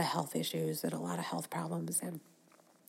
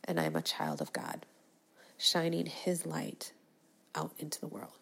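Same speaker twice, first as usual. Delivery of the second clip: sincere affirmation. Shown as a demonstration. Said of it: "I close this up every day with".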